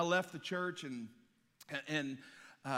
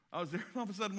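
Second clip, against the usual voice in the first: normal talking voice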